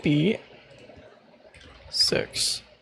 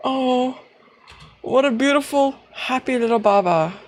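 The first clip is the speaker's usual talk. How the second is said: put-on higher, doting baby talk; cooing baby talk; 6 semitones higher than usual. Player cooing over the little character, higher. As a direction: coo at him like a baby.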